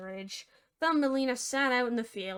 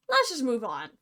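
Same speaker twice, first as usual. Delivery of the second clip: firm restatement. Acted.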